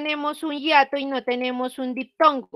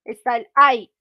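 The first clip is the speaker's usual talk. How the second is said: ay said louder to point it out; 5 dB louder than usual. Shown as a demonstration. Teacher showing the class the ay combination. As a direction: stress the combination ay. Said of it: "véanla acá".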